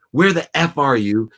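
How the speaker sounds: hammed-up furious demand on the phone; father imagining yelling at his daughter, mock angry. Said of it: "I would have called her in ego, in fear".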